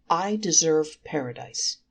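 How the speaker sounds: mildly sure of himself, deliberate; lightly voiced smug certainty; confident. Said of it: "he said confidently".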